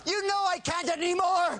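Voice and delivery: crying shout. Acted. Dating game contestant wails answer.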